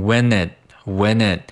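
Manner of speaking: "when it" joined as "whe-nit"; linked words. Shown as a demonstration. Teacher drilling liaison, "when it" linked as one word. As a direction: carry the n of "when" into "it". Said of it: "when和it进行连读".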